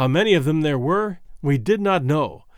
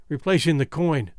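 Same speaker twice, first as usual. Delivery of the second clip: ordinary delivery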